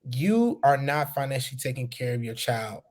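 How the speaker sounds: measured restatement so it sinks in. Shown as a demonstration. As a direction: spell it out slowly, drawing out the first word. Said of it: "I'm gonna say it slower".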